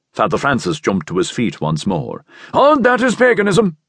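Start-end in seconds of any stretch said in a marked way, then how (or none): 2.5-3.8 high, loud denunciation; outraged cry. A narrator's reading. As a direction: cry out against the devil's work. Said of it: "he cried".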